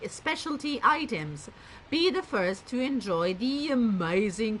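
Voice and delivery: lively sales-pitch reading with punched words; catalogue advert read-out. Acted.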